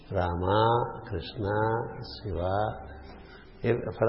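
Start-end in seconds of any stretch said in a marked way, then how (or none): 0.1-2.6 Rama, Krishna, Shiva each ending on long open aa; open-mouth endings. Shown as a demonstration. Teacher showing open endings, each name finishing on aa. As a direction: leave the mouth open on every final vowel. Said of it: "with a open mouth".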